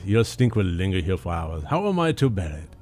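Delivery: haughty French cat, voiced in a French accent. Cat Frau Frau scorning her owner, French accent. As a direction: sneer at the humans in a French accent. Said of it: "or I can do the accent".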